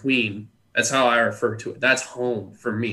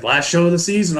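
a touch higher, mock-solemn announcement; others' sad line; 6 semitones higher, 4 dB louder than usual. Crew mourning the last show, lightly mournful. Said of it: "everyone was like".

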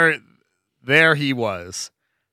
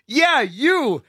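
mock starstruck greeting; 9 semitones higher, slower than usual. Loud mock-fan greeting on plane.

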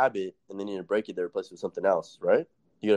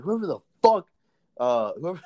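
much higher, louder, retold rant; mock enraged shout; 8 semitones higher, 3 dB louder than usual. Inmate on the mess hall table yells at everyone, mock rage. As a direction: bellow like a furious inmate.

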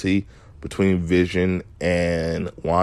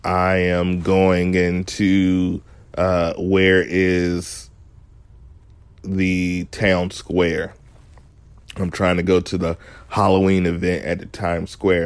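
fake dazed voice; slower than usual. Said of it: "she kinda gives the".

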